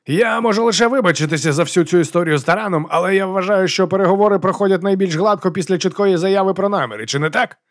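high-pitched polite speechmaking; affected nobleman, apologetic. A narrator's reading. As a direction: address the enemy deck with airy courtesy. Voices galley nobleman.

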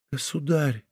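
Louise, nearly won over, pleads with the king softly; faint plea. A narrator's reading. Almost defeated girl appeals to the king, very softly. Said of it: "делая над собой последнее усилие".

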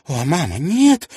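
a sudden cry rising high on нет; sudden exclamation. Acted. Miss Wannop protesting to her mother, suddenly exclaiming. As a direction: blurt out the protest. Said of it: "внезапно воскликнула мисс Уонноп".

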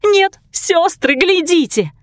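a very high, slow cry; Ruby urging her sisters to look at the prince fleeing, very high; excited pointing. A narrator's reading. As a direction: call the sisters to look, thrilled.

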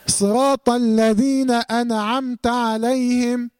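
slow chanted verse, wrongly bouncing the nun in أنعمت; common recitation mistake. Shown as a demonstration. Teacher shows students a common mistake, nun in أنعمت wrongly voweled. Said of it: "آه، اتحركت النون".

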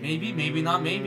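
slow, coy drawn-out maybe; teasing the hosts with a slow coy maybe. Real, not acted. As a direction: stretch it out playfully.

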